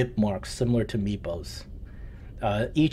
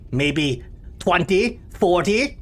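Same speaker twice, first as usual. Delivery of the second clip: higher, unsure goblin guess; 6 semitones higher, slower than usual. Acted. Snoggy guesses the goblin numbers, higher and unsure. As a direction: guess nervously.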